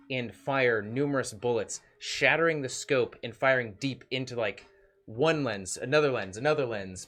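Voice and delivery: usual speaking voice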